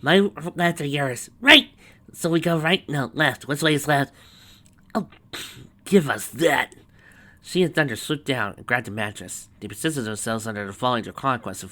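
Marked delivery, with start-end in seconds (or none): 0.0-4.1 high, loud, flustered questioning; raised, comically confused voice; confused helper. Acted. Confused bickering over directions. 4.9-6.7 louder, higher, slow impatient demand; raised, irritated interjection; exasperated. Acted. Exasperated helper takes over.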